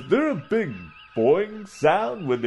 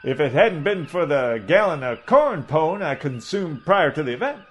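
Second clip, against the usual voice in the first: blustering Southern gentleman orator, a touch higher; pompous southern doctor; 4 semitones higher than usual. Acted. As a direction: hold forth like a pompous old Southern colonel. Doc Coburn's southern orator voice.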